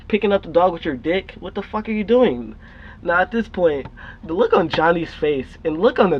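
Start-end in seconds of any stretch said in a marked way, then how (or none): 0.1-2.5 retold outraged challenge, pitched up at the end; incredulous confrontation. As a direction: imitate a brother calling someone out. Brother confronts boy over dog.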